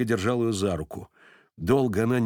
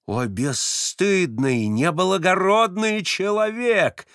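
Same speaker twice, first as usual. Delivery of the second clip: high, slow outraged cry; outraged wail; 7 semitones higher, much slower than usual. A narrator's reading. Varvara cries out at the old man in outrage. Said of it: "возопила она вдруг".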